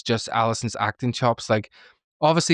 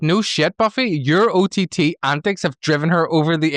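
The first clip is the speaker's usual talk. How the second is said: mock exasperation; 6 semitones higher, 4 dB louder than usual. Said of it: "And I'm like".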